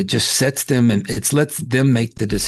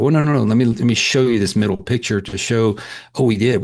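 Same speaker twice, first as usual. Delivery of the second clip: quick, raised protest; eager correction. Retold or imitated. Dentist correcting surprised patient.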